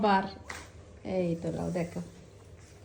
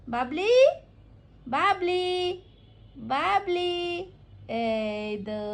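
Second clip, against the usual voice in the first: sing-out name call, climbing higher; coaxing call; 5 semitones higher, much slower than usual. Real, not acted. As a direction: coax a little one to look up. Calling Babli tenderly to look. (আদর করে নাম ধরে ডাকা)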